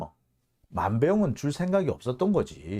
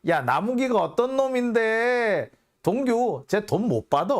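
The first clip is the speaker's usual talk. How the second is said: boasting. Retold or imitated. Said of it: "큰 소리를 떵떵 칩니다".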